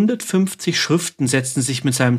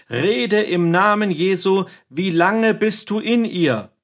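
commanding demand; 6 semitones higher than usual. Acted. Exorcist repeats question more forcefully.

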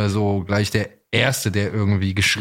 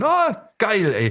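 much higher, offhand cheer; a quick throwaway teen whoop; casual Justus line; 10 semitones higher, much slower than usual. Pretend. Host imagines a simpler line for Justus, high casual cheer. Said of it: "Justus hätte einfach nur sagen können".

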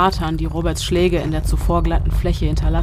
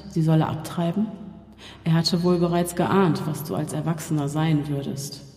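cold, scornful demon voice; cruel taunting voice. Acted. The evil voice mocks Robert about his father, scornful. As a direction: cut him down word by word.

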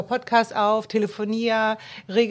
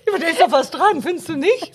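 laughing; 6 semitones higher, 6 dB louder, faster than usual. Real, not acted. Guest laughs at own story.

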